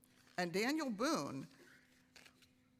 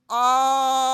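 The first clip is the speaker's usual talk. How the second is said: loud, high, held ah; sustained vowel; 4 semitones higher, 15 dB louder than usual. Shown as a demonstration. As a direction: hold the ah without fading. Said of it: "So it's gonna sound like this".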